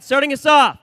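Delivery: slow drawn-out shouted callout; arena announcer. Acted. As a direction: boom the number across the arena. Announcing team numbers.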